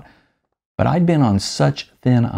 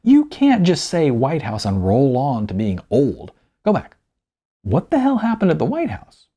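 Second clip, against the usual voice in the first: interrupting Samantha; 3 semitones higher than usual. Acted. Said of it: "she interrupted".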